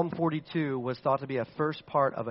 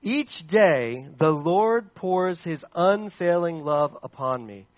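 slow confident psalm reading; slower than usual. Acted. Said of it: "He says".

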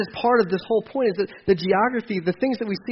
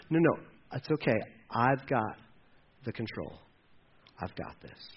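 much softer, fading into a whisper; calm him down, dropping to a whisper; soothing hush; 7 semitones lower, 8 dB quieter than usual. Retold or imitated. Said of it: "And God's going".

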